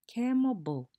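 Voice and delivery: high, loud call, "Ke mo ga"; lively teacher calling to students; call-and-response teacher call. Shown as a demonstration. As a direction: call out the prompt to the class. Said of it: "you say, I say".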